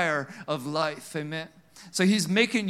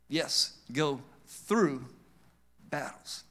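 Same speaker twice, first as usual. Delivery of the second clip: hushed whisper; 5 semitones lower, 7 dB quieter, slower than usual. Acted. Answering the complaint, hushed.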